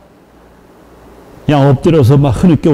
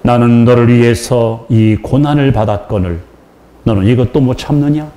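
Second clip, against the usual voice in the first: voice of the Lord; 3 semitones lower than usual. Retold or imitated. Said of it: "딱 한마디 하시더라".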